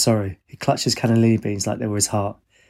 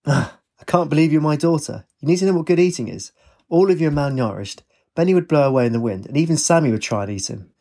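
a hint of an exasperated dad, higher at times; lightly voiced father; 4 semitones higher than usual. Father fussing at daughter over food, lightly voiced exasperation. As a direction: lightly play a dad dismayed at his child.

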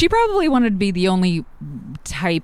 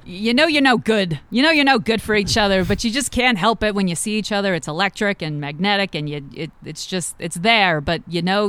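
put-on light Boston accent; a hint of a Boston accent; 2 semitones higher than usual. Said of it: "trying to do my Boston accent".

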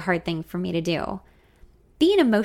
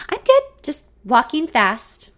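slow, louder, high and panting; out of breath; 6 semitones higher, 5 dB louder, slower than usual. A narrator's reading. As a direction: cover up being winded. She lies, panting.

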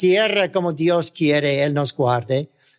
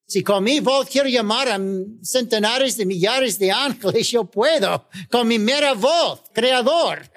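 voice of Jesus; 3 semitones higher than usual. Acted. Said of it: "Él dijo".

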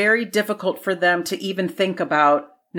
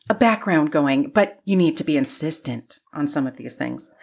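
hammy stage actor. Shown as a demonstration. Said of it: "my theatrical voice".

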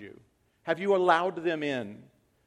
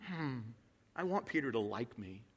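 soft, timid mumble; mock timid; 3 semitones lower, 12 dB quieter than usual. Paul's imagined avoidance, mock timid and soft. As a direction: shrink from the confrontation. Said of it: "And Paul said this".

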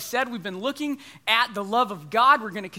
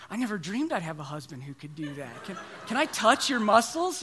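admiring wife; 3 semitones lower than usual. Pretend. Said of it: "maybe just something like".

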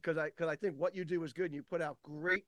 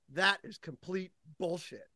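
slow, deliberate pronouncement, slightly raised; emphatic declaration; 3 semitones higher, 4 dB louder, slower than usual. Retold or imitated. Speaker retelling his big moment to Jack, emphatic declaration. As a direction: land each word slowly for effect. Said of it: "I said it like that".

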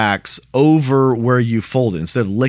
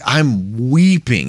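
"weeping" drawn out slowly for emphasis; slow, heavy stress on "weeping", voicing John; emphatic stretched WEEPING; much slower than usual. Preacher voicing John to the congregation, stretching "weeping" emphatically. Contrasting weeping with merely crying.

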